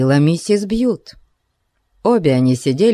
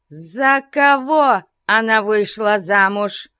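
raised, demanding question; mild furious cry; 7 semitones higher than usual. A narrator's reading. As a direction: demand an answer. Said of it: "крикнула старая дева". (крикнула в бешенстве)

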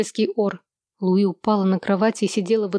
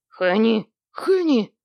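desperate shout; slower than usual. A narrator's reading. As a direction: cry her name out, a touch desperate. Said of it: "в отчаянии крикнул Сэм".

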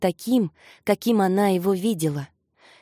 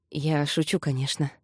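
low, soft take-back of a joke; understated, hushed "just kidding" tone; quiet aside; 5 semitones lower, 6 dB quieter than usual. A narrator's reading. Joking aside after a grumble.

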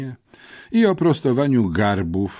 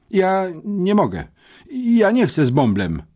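high, whining schoolboy protest; desperate pleading; 11 semitones higher, 4 dB louder than usual. A narrator's reading. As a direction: plead your way out, pitched high. Pupil begs headmistress to spare him. (rozpaczliwe, wysokie błaganie)

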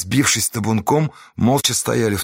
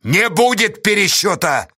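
firm refusal; 8 semitones higher, 3 dB louder than usual. A narrator's reading. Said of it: "повторила Сташа".

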